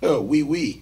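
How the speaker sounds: ordinary talk, nothing marked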